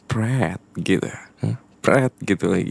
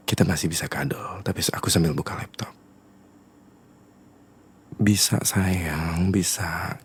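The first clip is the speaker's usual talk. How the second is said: coaxing whisper. Acted. Coaxing girlfriend while opening laptop.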